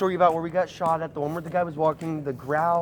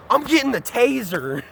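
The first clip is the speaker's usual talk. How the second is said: mock threat; 5 semitones higher than usual. Acting out woman's taser threat.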